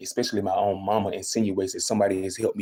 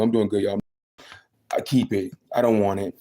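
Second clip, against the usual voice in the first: mock proud refusal; mama's attitude. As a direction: imitate her waving it away. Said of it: "This is her attitude".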